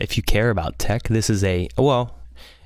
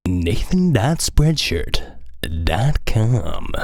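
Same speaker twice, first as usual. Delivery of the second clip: hammed-up radio DJ, slowing on the address; much slower than usual. Shown as a demonstration. Retrying his merch plug in a mock radio voice. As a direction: ease into the web address like a DJ. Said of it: "how every radio D J sounds".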